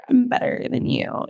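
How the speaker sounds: airy, voiceless snub; slow, whispery mock superiority; cold shoulder. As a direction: imitate someone acting superior, almost whispered. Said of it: "she was very just, like".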